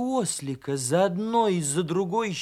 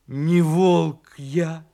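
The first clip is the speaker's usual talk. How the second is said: loud, very drawn-out protest; insistent wolfish denial; 8 dB louder, much slower than usual. Acted. Donkey insisting he is no wolf, loudly protesting.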